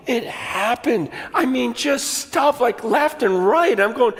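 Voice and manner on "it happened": slow awed repeat. Real, not acted.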